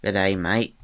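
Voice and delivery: rough attempt at an Australian accent. Shown as a demonstration. Voice actor warming up an accent, attempted Australian. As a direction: greet in amateur Australian. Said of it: "try and do Australian".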